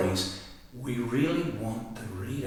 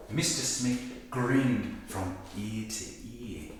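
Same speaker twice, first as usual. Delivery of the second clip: expressive reading; 4 dB quieter, slower than usual. Shown as a demonstration. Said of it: "show something like this".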